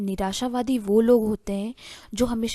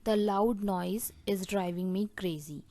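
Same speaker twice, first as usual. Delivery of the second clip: very slow and deliberate, word by word; slow dictation; much slower than usual. Shown as a demonstration. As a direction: dictate the phrase slowly to the class. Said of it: "जिसे हम English में बोलेंगे".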